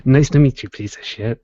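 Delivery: stiff robot voice, barely changed. Pretend. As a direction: speak like a malfunctioning robot. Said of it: "it starts going in a robot voice".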